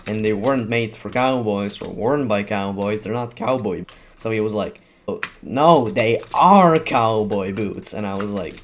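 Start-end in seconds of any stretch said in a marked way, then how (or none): 5.1-7.9 put-on loud insistent kid, dragging out are; stubborn, insisting loudly. Classmate loudly insisting they're real boots.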